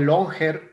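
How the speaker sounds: "longer" pronounced with a hard G; longer with a hard double G. Shown as a demonstration. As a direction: say "longer" as "long-ger" with a hard G. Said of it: "Yo digo longer nomás para hacer énfasis".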